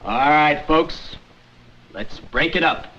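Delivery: lightly voiced policeman; policeman line demo. Shown as a demonstration. Director shows Harry the policeman's line, lightly acted. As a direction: show the walk-on line, a hint of a cop. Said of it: "you walk across as a policeman, and you say".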